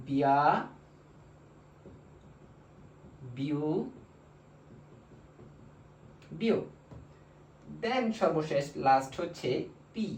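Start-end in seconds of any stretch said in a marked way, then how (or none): 0.1-6.6 নিয়া, নিউ, নিও each said alone after a long pause; slow syllable demo. Shown as a demonstration. Teacher modelling the new syllables, slow and deliberate. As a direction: model every syllable for students to repeat. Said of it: "pronunciation হয়ে যাবে".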